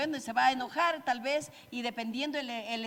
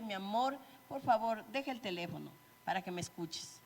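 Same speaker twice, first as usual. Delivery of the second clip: much softer and lower, tender; gentle plea; 3 semitones lower, 6 dB quieter than usual. Retold or imitated. Spouse asking partner kindly to listen, soft tender plea. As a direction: ask sweetly, almost hushed. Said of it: "o decirle".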